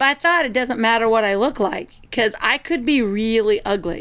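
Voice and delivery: plain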